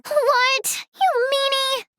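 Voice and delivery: pouty protest. Acted. Protesting a refusal.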